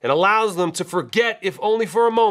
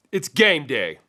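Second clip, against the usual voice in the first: toned-down repeat; 3 semitones lower, slower than usual. Real, not acted. Second take after the shout.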